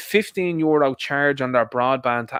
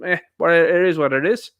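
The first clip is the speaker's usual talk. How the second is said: louder, dismissive imitation; mock sneering; 5 dB louder than usual. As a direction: imitate his sneering shrug-off. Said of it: "sneering at them, going".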